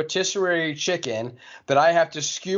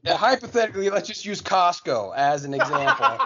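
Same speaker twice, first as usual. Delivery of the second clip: laughing; 4 semitones higher than usual. Real, not acted. Laughing through setup.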